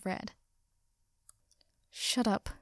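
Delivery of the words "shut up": mildly irritated growl. A narrator's reading. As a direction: growl it grumpily without shouting. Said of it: "Katsuki growled".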